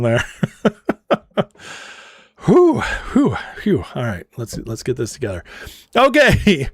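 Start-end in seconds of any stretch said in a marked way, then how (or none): none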